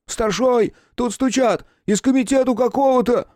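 high, loud alarmed call; urgent shout. Acted. Guard yells to the chief about the knocking, high and loud. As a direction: rush the news out at a yell.

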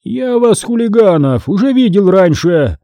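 put-on old man shouting at kids. A narrator's reading. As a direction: yell at the troublemakers. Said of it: "закричал мистер Амк".

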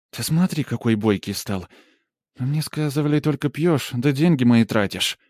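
lightly voiced scolding peasant aunt; mocking village woman. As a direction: prod him with sly reproach. Polina mocking the hero.

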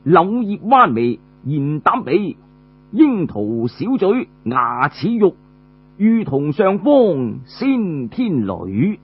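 slow, measured verse chant; poem recital. Acted. Storyteller recites a praise poem in slow measured verse. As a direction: recite each line slowly like verse.

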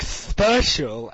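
"Special" drawn out with an exaggerated vowel; mockingly stretched "Special"; mimicked pronunciation. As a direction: parrot the teacher's odd "Special". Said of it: "we're all like".

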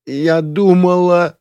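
high, slow tearful wail. A narrator's reading. Drunk girl wailing to her rescuer, high and tearful. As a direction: wail it out through tears. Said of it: "громче завыла она".

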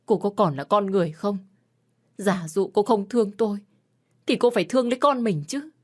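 betrayed husband lecturing his wife, rising fury; bitter anger. Acted. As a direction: pour out the hurt, climbing to a yell. Husband's long furious rebuke.

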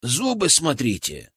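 slow, pointed caution; drawn-out word of warning. Acted. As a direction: warn them to take care. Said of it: "предупредил Артём".

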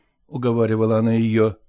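ordinary delivery

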